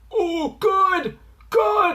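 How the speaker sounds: high cry of approval, retold; retold relief. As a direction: act out a delighted high-pitched reaction. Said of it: "I'm like".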